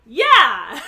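very loud cheering shout; passengers' shout. A narrator's reading. English speakers as the boat moves, celebratory shout. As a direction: shout it like a whole crowd. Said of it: "the English-speaking ones shout".

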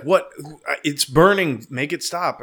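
panicky wife. Retold or imitated. Wife begging the guys to make the burning stop, mock panic.

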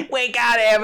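high mock announcement lost in laughing; garbled by laughter. Co-host voicing the captors, garbled with laughter. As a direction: blurt it unintelligibly while cracking up. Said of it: "don't even know what you said".

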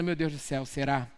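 a hint of nervous doubt to yourself; mildly voiced anxious prayer; anxious inner prayer.

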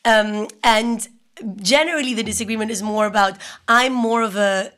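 coarse, sick voice; hoarse from a cold. Real, not acted. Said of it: "So sorry if I sound very coarse".

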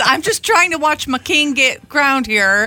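voicing the poor guy. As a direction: plead like a bystander wrongly accused.

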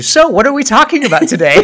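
laughing. Retold or imitated. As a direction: giggle through the catchphrase. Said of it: "And I was like".

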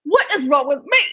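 high, giggly self-pity, laughing through it; playful mock despair through giggles; laughing mock lament. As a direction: laugh while whining why not me. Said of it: "I was like".

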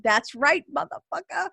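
triumphant gloat. Retold or imitated. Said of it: "how triumphant I felt".

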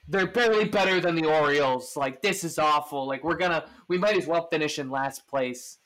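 lightly imitated fan complaint, loud at first; mock upset fan. Mimicking Yankees fans writing off the season, mild mock outrage.

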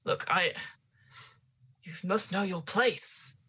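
lightly voiced stern old gardener; calm the hysterical lady firmly. GM voicing gardener in scene.

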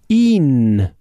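single out "Ihn" with a firm stand-alone hit; stressed ihn. Shown as a demonstration. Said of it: "In German, we have to say ihn".

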